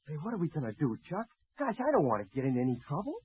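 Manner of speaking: low, hushed worried aside; whispering. Acted. Frightened student pilot to his friend under arrest, hushed whispering. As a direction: keep it down so the official won't hear. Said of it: "What are you two whispering about?".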